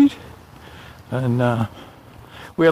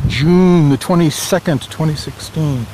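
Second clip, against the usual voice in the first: bright morning radio announcer; 4 semitones higher, slower than usual. Real, not acted. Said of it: "I sound like a radio D J".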